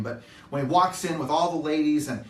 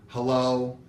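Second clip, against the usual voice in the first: a mildly bothered, low hello; put-out hello; 3 semitones lower than usual. Retold or imitated. Teen daughter picking up dad's call, mildly put out. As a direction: answer like the call is a nuisance. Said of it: "as if I have put her totally out".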